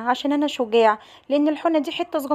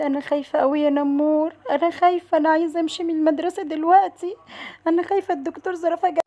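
scared pupil; 2 semitones higher than usual. Acted. Pupil scared of the coming doctor.

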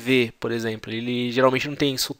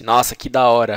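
excited slang demo; 7 dB louder than usual. Shown as a demonstration. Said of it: "se falar assim".

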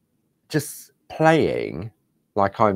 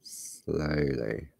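soothing self-coaching; 3 semitones lower, 8 dB quieter than usual. Shown as a demonstration. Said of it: "looking at the road".

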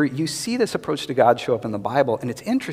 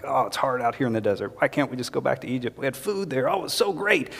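mock grumbling; 4 dB quieter than usual. Israelites complaining to Moses in the desert, mock grumbling. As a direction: lightly imitate a crowd moaning, voice rising. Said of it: "They're complaining".

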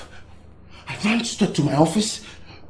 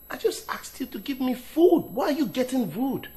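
higher-pitched, indignant protest; raised voice; 5 semitones higher than usual. Acted. Hungry husband challenging his wife over food, raised voice. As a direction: protest at being snubbed, pitch climbing. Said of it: "raising your voice at me".

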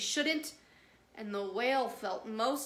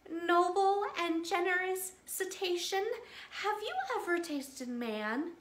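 higher, small and crafty fish voice; small clever fish voice; 8 semitones higher than usual. Acted. The small fish flattering the hungry whale, higher and crafty. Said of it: "said in a small 'stute voice".

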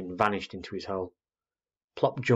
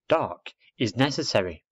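put-on emphatic girl; 3 semitones higher than usual. Girl states it.

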